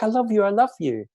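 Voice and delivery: high, gushing puppy voice; excited dog voice. Retold or imitated. Owner voicing her dog greeting everyone, high and gushing. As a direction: pour out love like an excited puppy. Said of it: "She's just so excited".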